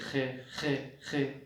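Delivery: throaty خے خے to an animal; animal call. Retold or imitated. Pathans calling their animals, throaty call. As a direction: call a beast with خے. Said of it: "اور پٹھان لوگ کیا کہتے ہیں؟".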